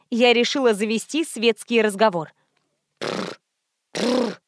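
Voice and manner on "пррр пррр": soft lip-trilling splutter. A narrator's reading. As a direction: spit out water, lips flapping. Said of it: "начал отплёвываться здоровяк".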